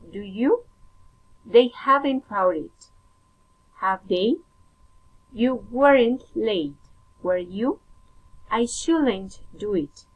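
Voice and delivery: statement, a pause, then the short tag rising; careful teacher's model of tag questions; tag-question intonation. Shown as a demonstration. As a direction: lift "do you", "have they", "were you", "should I" at the end. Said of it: "falling or rising intonation".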